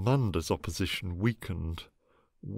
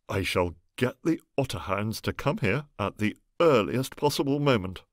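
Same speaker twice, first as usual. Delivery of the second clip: savage; 3 semitones higher, 4 dB louder than usual. Acted. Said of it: "said Egbert savagely".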